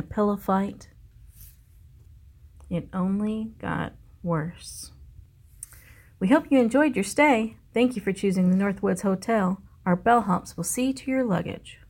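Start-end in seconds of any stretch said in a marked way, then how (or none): 6.2-11.8 lightly voiced chirpy mouse receptionist; cheery hotel mice. Mice staff welcoming grumpy bear guest, lightly chirpy.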